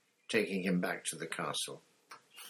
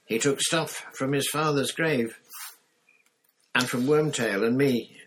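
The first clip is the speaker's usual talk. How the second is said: put-on agitated boy; 7 semitones higher, 7 dB louder than usual. Harry answers Moody.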